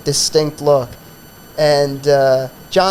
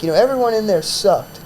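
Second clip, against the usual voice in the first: cranky rant; 4 semitones higher than usual. Retold or imitated. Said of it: "he was getting cranky".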